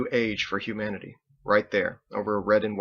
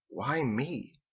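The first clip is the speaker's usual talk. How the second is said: soft question; 4 semitones higher, 6 dB quieter than usual. Acted. Andelin asks, soft far.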